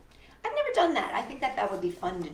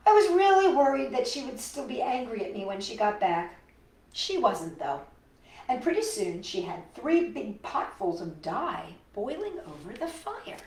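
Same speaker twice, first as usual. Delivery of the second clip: put-on lively storybook narration for kids; reading to children; 3 semitones higher than usual. A narrator's reading. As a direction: read it like a picture book to little ones. Reads picture book aloud.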